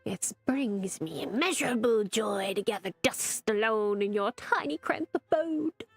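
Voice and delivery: hammed-up martyr sarcasm; sarcastic. Barnabas mocking his master with theatrical sarcasm. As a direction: lay the self-pity on thick. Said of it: "you're being sarcastic right now".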